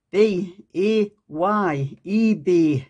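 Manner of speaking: "B A Y" spelled letter by letter, slowly, then "eBay". Shown as a demonstration. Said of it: "Must be my Geordie accent".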